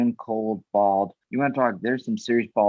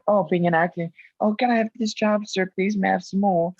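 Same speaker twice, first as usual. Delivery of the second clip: begging actor; 7 semitones higher than usual. Retold or imitated. Mocks a begging young actor.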